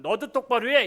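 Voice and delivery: high, loud angry yell; father's scolding shout. Retold or imitated. Father yells at the misbehaving son, angry and loud. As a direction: bark it at the son. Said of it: "야단만 치고".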